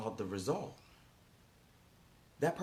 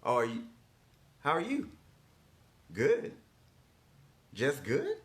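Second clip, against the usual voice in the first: high, loud, bouncy questions; energetic mentor; 4 semitones higher, 3 dB louder than usual. Retold or imitated. Mentor pushing a client past "good", excited and loud. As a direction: pump the other person up. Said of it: "that's how I show up on the phone".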